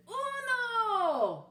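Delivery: shout. Acted. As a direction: call out the count. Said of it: "as the doggy shouted".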